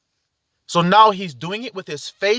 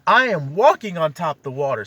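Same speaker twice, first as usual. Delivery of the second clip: said with an audible smile; smiling. Shown as a demonstration. Preacher showing how faith sounds, smiling. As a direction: smile through the words, lightly pleased. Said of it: "see the smile on my face?".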